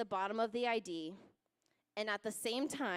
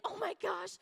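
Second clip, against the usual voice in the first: high-pitched mock wail of panic; mock screaming; 10 semitones higher than usual. Panicking brother to his sister about their dad, mock screaming. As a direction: imitate a hysterical little brother, pitched way up.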